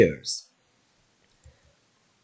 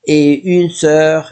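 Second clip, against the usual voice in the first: slow model phrase; slower than usual. Shown as a demonstration. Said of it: "you say".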